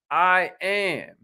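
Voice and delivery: firm, declarative I am; say it like you mean it. Shown as a demonstration. Coach leading the audience in an affirmation, firmly. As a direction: own the words I am. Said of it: "Say it like you mean it".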